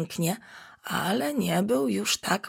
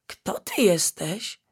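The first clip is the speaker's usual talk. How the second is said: timid question. Acted. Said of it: "zapytał".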